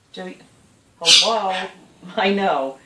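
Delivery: loud sing-song hello; calling out. Real, not acted. Owner calling parrot Joey, loud sing-song hello. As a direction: call out to the bird.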